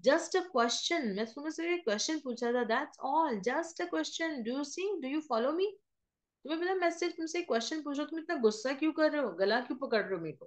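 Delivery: high, fast, pleading babble; a frightened man begging his attacker to let go; panicked pleading. Acted. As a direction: talk your way out of a choke hold, fast and high. Macken pleading while being choked.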